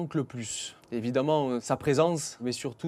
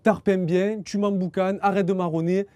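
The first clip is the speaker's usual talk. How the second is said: Marseille accent; 3 semitones higher, 4 dB louder than usual. Shown as a demonstration. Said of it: "L'expression marseillaise".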